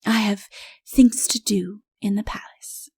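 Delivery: breathy whisper of an excuse; whispered aside. Acted. The queen whispers her excuse to the king as she leaves, whispering. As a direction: whisper it as you slip away.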